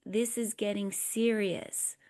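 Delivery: calm acknowledgment. Shown as a demonstration. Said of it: "The person says".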